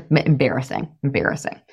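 low, softened self-shaming; disgusted inner critic. Acted. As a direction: mutter it down at yourself in mock shame. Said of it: "what my brain used to say to me".

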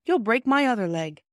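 high moaning protest. A narrator's reading. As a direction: complain as if hurting. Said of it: "moaned Peter".

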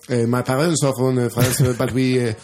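English with a French accent; hesitant French-accented English. Shown as a demonstration. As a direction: put on a halting French accent, full of "eh". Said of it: "prata engelska med fransk brytning".

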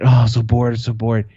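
put-on whiny kid. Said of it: "And then I was like".

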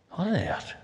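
nosy local. Retold or imitated. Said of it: "looking at someone else and going".

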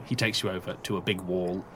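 normal talking voice

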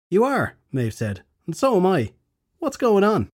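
high alarmed queen; surprised. A narrator's reading. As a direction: ask in startled alarm. Queen alarmed in new language.

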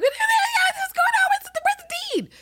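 hammed-up high, loud shriek; piercingly high mock hysteria; frantic Marion. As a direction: squeal it like someone in a comic panic. Voicing frantic Marion in retelling.

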